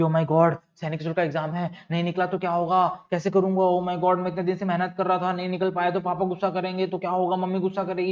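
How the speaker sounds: mild fretting, rushing a little; mock anxiety. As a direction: act out a worried kid before an exam. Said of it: "anxiety कर रहे हैं".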